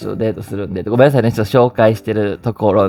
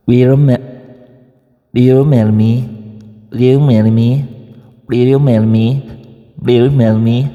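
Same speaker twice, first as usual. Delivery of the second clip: louder, slurred native English with "Will you marry me?", the Will barely said and marry clipped; 6 dB louder, much slower than usual. Shown as a demonstration. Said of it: "ネイティブっぽくいくとしたら".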